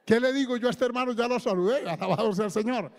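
lightly voiced confused inner voice; retold bewilderment. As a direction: rattle off the worried thought quickly. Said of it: "yo me quedé así porque".

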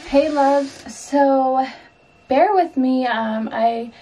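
breathless, catching her breath; talking short of breath. Real, not acted. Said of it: "get really out of breath".

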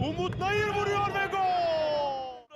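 goal shout. Real, not acted. Commentator calls a goal.

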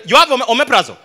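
bold, loud ordering at the counter; loud, confident customer. Acted. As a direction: call out the order for all to hear. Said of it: "When you're buying other drugs".

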